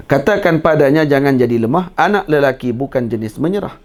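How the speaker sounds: slow, measured recitation of a verse; recited verse. Shown as a demonstration. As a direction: recite it like a lesson to pass on. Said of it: "Ha, cara tu". (deklamasi perlahan seperti syair)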